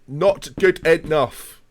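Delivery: slow, drawn-out mock scold. Streamer drawing out a slow scold aimed at autocorrect. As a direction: stretch each word out, mock stern.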